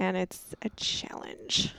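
breathy aside whisper. Real, not acted. Aside about cleaning up language.

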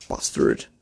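unvoiced low whispered curse; whispering an insult at the noisy neighbour. Real, not acted. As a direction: hiss the insult under your breath.

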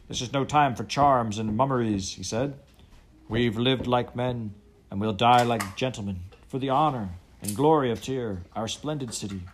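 loud, high heroic battle speech; defiant rallying cry. Acted. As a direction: rouse the crew to die bravely.

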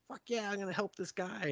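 high, eager new recruit; gung-ho. Retold or imitated. New recruit eager to help the guy, gung-ho. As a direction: pipe up all gung-ho, pitched high. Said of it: "she's all gung-ho".

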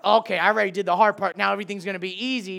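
fast, breezy smugness; fast mock self-satisfied voice; mock complacent. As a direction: rattle it off carelessly. Mock complacent believer quote.

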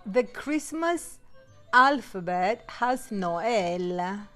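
ordinary talk

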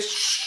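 long hissed shush; drawn-out mock shush; imitated shush. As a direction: cut him off with a shush. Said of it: "He's like".

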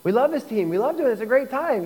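mocking old friends. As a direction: play the friend who can't believe it. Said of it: "And they'll be like".

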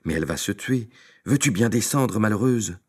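supplie la mule, de plus en plus aigu; pape affolé. Acted. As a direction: crie vers la mule là-haut. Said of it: "Miséricorde! fit le pauvre pape". (le pape supplie sa mule, affolé)

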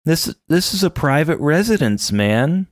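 timid mock protest; a hint of a flustered dude; weak protest. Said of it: "the best he can muster is".

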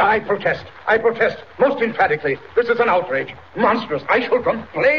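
a pompous man sputtering his objections; indignant protest. Acted. Arrested doctor protests to the sergeant, outraged and shrill.

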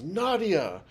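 high, loud call across a crowd; calling out a name. Retold or imitated. Stranger calling out to the congresswoman by name, loud and high. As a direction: shout the name to get her attention.

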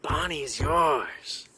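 a hint of a firm counselor saying Bonnie; counselor's voice. Counselor refusing to swap horses, a hint of low slow insistence. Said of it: "This dude's like".

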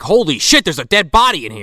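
loud, high, hammed-up alarm; mock shock. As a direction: imitate a kid stumbling on a horror. Acting Kevin's shock at a body.

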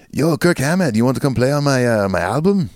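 put-on playful Hispanic accent, easing off; mock Hispanic accent. A guitarist asks another guitarist to play on his album, in a joking Hispanic accent. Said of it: "That's my Hispanic accent".

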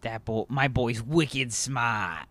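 put-on slow, drawn-out Boston accent; Boston accent quote. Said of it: "does a way better job at being like".

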